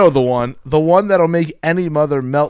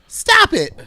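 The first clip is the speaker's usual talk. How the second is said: very high, hammed-up female character voice; mother's protest; 4 dB louder than usual. A narrator's reading. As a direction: protest in a squeaky mock-mother voice. Reading mother's dialogue in story.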